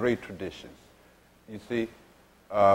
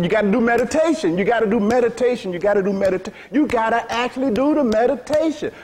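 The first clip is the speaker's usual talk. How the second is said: quoting Maharaj; 7 semitones higher, faster than usual. Retold or imitated. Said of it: "Maharaj used to say".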